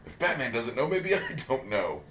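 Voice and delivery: half-laughing resigned quote; laughing through it. Retold or imitated. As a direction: chuckle as you give up. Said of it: "and I'm going".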